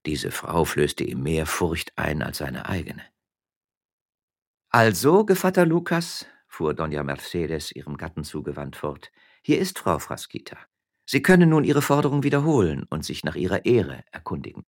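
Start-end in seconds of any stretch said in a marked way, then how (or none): 4.7-14.6 lady of the house, raised pitch; cool superiority over her husband; haughty wife. Acted. Wife addressing her husband as the miller, mocking.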